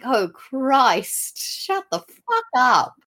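high, drawn-out exasperation; exasperated. Retold or imitated. Viewer fed up with the wailing children, exasperated.

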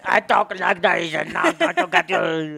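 slow Austrian robot Schwarzenegger; mock Austrian Terminator. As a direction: stiff Terminator accent, slow. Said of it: "he's like".

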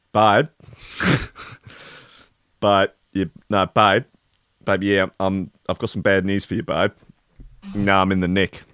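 smooth-talking husband on the phone; schmoozy hollywood agent. Pretend. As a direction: sweet-talk your wife from a cell. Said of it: "imagine having to phone your wife about that".

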